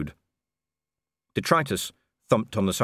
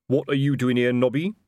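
higher, sharp challenge; lightly voiced captain; 5 semitones higher, 4 dB louder than usual. A narrator's reading. Colon challenging Nobby, a touch sharp. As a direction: demand an answer.

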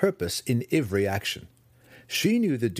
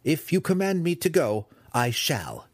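dutiful son speaking out; 7 semitones higher than usual. Acted. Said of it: "Dinin spoke out".

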